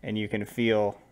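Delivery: measured game master narration; scene narration. Acted. Game master unveils the armored knight to players, measured narration.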